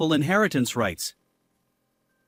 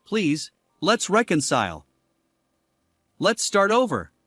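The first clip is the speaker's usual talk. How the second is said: begging; 3 semitones higher than usual. Acted. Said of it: "He begged".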